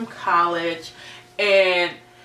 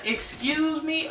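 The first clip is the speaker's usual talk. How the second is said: incredulous; 9 semitones higher, 5 dB quieter, slower than usual. Real, not acted. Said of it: "And I was like".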